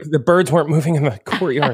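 Sixth Sense realization. Retold or imitated. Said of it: "You're like".

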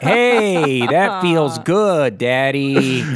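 drawn-out, teasing sexy voice; hammed-up bedroom voice; mock sultry wife. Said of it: "she actually said things like".

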